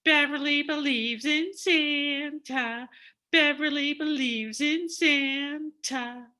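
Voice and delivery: put-on high sing-song kids' taunt; teasing taunt. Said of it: "This encouraged them to tease me".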